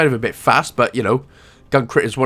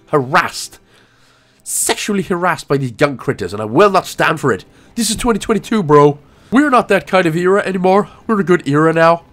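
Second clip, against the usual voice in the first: hammed-up indignation, rising higher and louder; mock outrage; 4 semitones higher, 4 dB louder than usual. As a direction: protest with playful righteous indignation. Mock outrage on behalf of creature.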